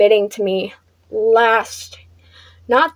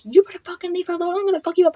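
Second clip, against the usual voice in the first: mock angry threat; 8 semitones higher, 4 dB quieter, much faster than usual. Brother's retold threat.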